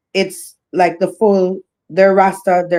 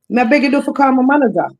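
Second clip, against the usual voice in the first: quick, higher-pitched no-nonsense telling-off; firmly letting know; 4 semitones higher, faster than usual. Acted. Entertainer setting callers straight about booking, firmly letting them know. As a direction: set them straight briskly, without heat. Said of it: "I'm just letting you know that".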